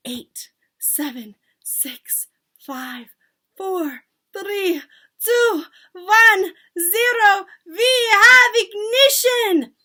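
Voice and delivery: from measured count to high, loud cry; spaced count exploding at the end; building countdown. A narrator's reading. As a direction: build number by number to a triumphant shriek. Witch counts down to the transformation.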